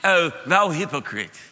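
put-on slow, stately old-English movie Jesus; mock movie Jesus. Preacher mocking movie Jesus, slow and stately. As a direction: drawl it like a pompous Bible epic. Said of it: "How come he always speaks English?".

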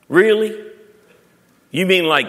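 high incredulous question; comically doubtful reaction; mock disbelief. Acted doubting reply to Jesus.

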